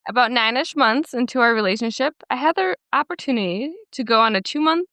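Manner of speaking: measured story narration in even phrases; reading aloud. Acted. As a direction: read someone's written post to listeners. Reads a Reddit post aloud.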